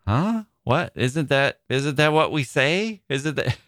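mock bewilderment with rising questions; confused. Friend baffled at being corrected on the phrase, confused. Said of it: "he was a little confused".

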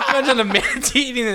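high manatee voice, laughing. Pretend. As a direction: keep the dopey sea cow voice. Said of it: "He was doing a manatee voice".

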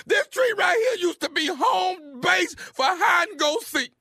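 slow, shouted mock sobbing about the tree; cry-yell it like a hammed-up heartbroken man; fake crying. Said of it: "Are you crying?".

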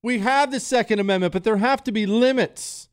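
high, mocking parody of politicians; hammed-up politician mockery; mocking Democrat politicians. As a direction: lampoon them in a high, preachy voice. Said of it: "have routinely come out and said things".

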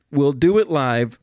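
Bill O'Reilly rant. Retold or imitated. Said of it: "the Bill O'Reilly Freakout".

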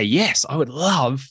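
upbeat, keen order at the bar; breezy, enthusiastic role-play of ordering; confident, smiling acceptance. Acted. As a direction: say it with a confident smile. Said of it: "you smile and you confidently say".

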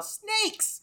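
high-pitched comic yell. Acted. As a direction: shriek it as a joke battle cry. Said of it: "throw spaghetti at them and yell".

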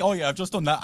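high, airy mock-casual boast; imitated nonchalance. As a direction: shrug off a big achievement. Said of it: "how nonchalant you are about it".

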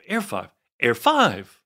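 trying the catchphrase in varied pitches; Rob Maschio. Retold or imitated. Actor running his one line over and over, varying it. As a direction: rehearse one line repeatedly, mock-serious. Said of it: "running his one line".

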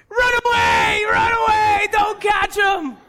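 high, loud, panicked cheering-on; high-pitched urgent shout; excited child yelling. Retold or imitated. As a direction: yell a frantic warning like a kid at the TV.

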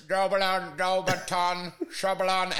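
mock broken-phone babble; garbled gibberish voice. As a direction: babble like a cutting-out call. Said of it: "record how your voice actually sounds to me".

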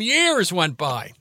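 Years went by said very slowly, Years drawn out; slow, weighty repeat. Shown as a demonstration.

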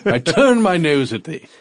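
lofty, disdainful noble; haughty royal voice. Pretend. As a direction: sniff at them like a snooty king. Mock royal disdain for princes.

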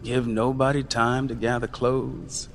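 put-on lecturing the young ones on cruelty; Uncle Jim, bitter and weary. Uncle Jim's bitter speech.

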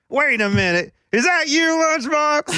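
high, slow, surprised voice; dawning surprise, drawn out; surprised recognition. Retold or imitated. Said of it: "he was like".

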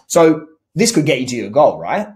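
a mildly pushy, leading check-in; assumptive question. Shown as a demonstration. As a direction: lead them, taking "right?" as settled. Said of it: "not to sound suggestive or assumptive".

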